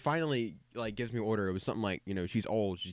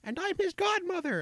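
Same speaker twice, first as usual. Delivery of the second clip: put-on very high, slow, sweet old-lady voice; imitating a doting grandma, high and quavery; slower than usual. Redhead mimicking old ladies who gush about red hair, high old-lady voice.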